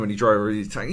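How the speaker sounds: usual speaking voice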